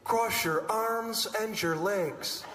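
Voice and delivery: lightly voiced slow ride announcement; speaker announcement. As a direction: slowly intone it like a recorded safety instruction. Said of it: "speakers pop on".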